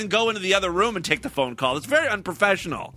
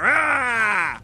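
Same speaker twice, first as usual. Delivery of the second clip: mock shout; 4 semitones higher than usual. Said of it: "with one hand up in the air".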